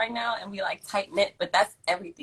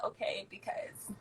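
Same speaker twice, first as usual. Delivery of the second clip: whisper; 13 dB quieter, slower than usual. Real, not acted. Sudden whisper aside.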